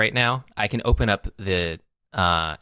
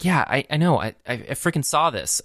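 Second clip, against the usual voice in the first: higher-pitched mock exasperation; exasperated retort; 6 semitones higher than usual. User answering a needless memory suggestion, exasperated. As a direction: talk back to a pestering device, exasperated.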